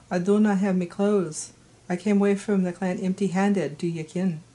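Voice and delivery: put-on light, unpractised Scottish accent; amateur Scottish accent. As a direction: attempt Scots for the character's line. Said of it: "Scottish accent needs a lot of work".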